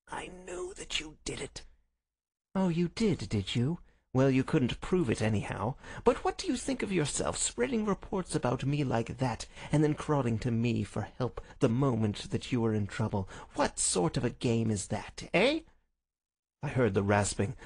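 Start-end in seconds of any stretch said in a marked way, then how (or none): 0.1-1.6 very high, soft, thin voice; feeble accusation. Acted. Sick Holmes accuses his visitor, feeble voice. 2.5-15.6 lightly voiced sneering villain; scornful visitor Smith. Visitor rebukes Holmes for spreading reports, mildly scornful.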